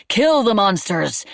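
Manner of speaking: slow, furious crowd yell; loud, drawn-out angry cry; angry shout. Acted. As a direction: bellow it with rage at the captors. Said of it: "and they shouted".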